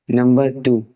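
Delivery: ordinary talk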